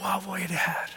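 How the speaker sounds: viskat wow, förundrat; häpen viskning. Retold or imitated. Retold awe after prayer. (nyfrälst viskar förundrat efter förbönen)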